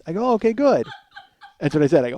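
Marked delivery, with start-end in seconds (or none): 0.3-0.9 high, loud "oh, okay"; retold anxious relief. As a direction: acknowledge it too eagerly, pitched up. Retold nervous reply to mom.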